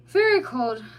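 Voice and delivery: high, slow, dreamy voice; drowsy otter. A narrator's reading. Tipsy otter answering the mole, dreamy. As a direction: drift off mid-sentence.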